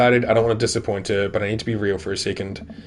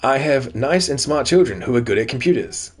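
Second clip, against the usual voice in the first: fake Craig; 3 semitones higher, slower than usual. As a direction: pose as someone else, brightly over-announced. Reads note from a fake Craig.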